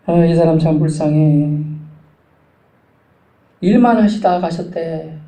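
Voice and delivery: slow, drawn-out mock lament; imitating mourners, drag out the regret; retold pity. Mourners pitying someone who only worked, slow retold pity. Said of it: "이런 말이 가장 안타깝더라고요".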